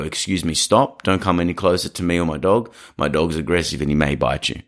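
firm, sharp "stop"; assertive warning. Shown as a demonstration. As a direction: hold them back with a firm voice. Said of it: "take on that assertiveness".

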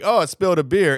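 feigned accident. Retold or imitated. Friend covering up with spilled beer, feigned innocence. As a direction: imitate someone playing it off as accidental. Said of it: "it'll act like".

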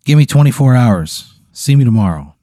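a friendly creature voice, lightly played; lightly voiced snooze monster. Snooze monster consoling the player, lightly voiced.

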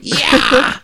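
high gleeful yell; triumphant whoop. Retold or imitated. Zombie in dream pouncing, high gleeful whoop.

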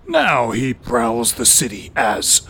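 ominous hero whisper; superhero voice. Acted. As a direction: hiss the villain's name darkly. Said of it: "That's my superhero voice".

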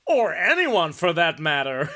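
loud, slow Texan drawl; mock Texan accent. Reading Don in Texas's reply, in a hammed-up Texan accent. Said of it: "Don in Texas says".

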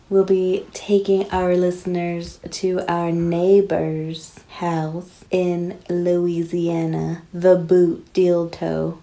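put-on slow, drawn-out Southern accent; Savannah, Georgia accent. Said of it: "like, a Savannah, Georgia accent".

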